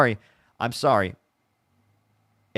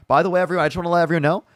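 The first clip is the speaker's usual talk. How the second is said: loud announcement; 6 semitones higher, 7 dB louder than usual. Real, not acted.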